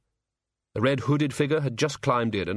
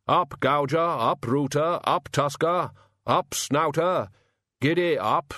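higher, driving-on call; calling to the boars; 4 semitones higher, slower than usual. Acted. Hogfather calling to the sledge boars, urging. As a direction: urge the pigs forward.

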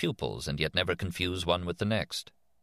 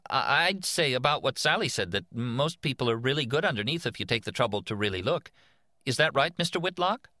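put-on stammering boy; 8 semitones higher than usual. A narrator's reading. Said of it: "A boy stammered".

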